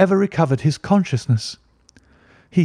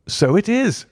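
a startled cry, pitched up high; the father cries out in alarm at the letters, pitch raised; cried out; 6 semitones higher than usual. A narrator's reading. Father reading the threatening letter, startled high cry. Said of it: "he cried".

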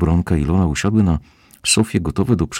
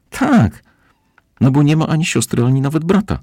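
high, loud indignant cry; outraged niece, much higher and louder; indignant outburst; 11 semitones higher, 4 dB louder than usual. A narrator's reading. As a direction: burst out, furious at the lie. Walerka purple with rage.

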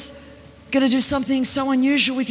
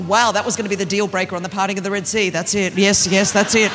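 lower, quick dry sarcasm; deadpan mock God; sarcastic God; 4 semitones lower than usual. God replying to Moses, low dry sarcasm.

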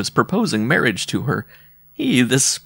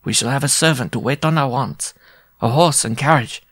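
higher, boasting little courtier; proud dwarf suitor; 3 semitones higher than usual. Acted. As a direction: promise her comfort proudly. Dwarf describes his fortune.

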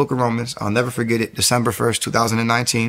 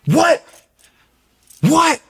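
stunned disbelief; 5 dB louder than usual. Retold or imitated. Shocked at the barbershop coincidence.

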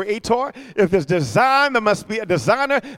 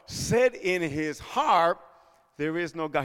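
very slow and much softer; slow hushed verse; 3 semitones lower, 6 dB quieter, slower than usual. Acted. Pastor quoting the fool, very slow and much softer. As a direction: let the verse sink in quietly. Slow quiet scripture quote.

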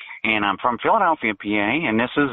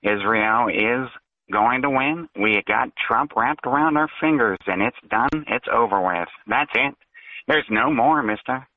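fake voice; 3 semitones lower than usual. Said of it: "It's obvious you're doing a fake voice".

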